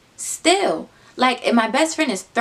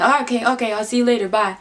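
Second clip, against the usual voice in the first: imitated hasty farewell, slightly raised; hurried goodbye; 3 semitones higher, 3 dB louder, faster than usual. Guy running out of her car, mock hurried goodbye.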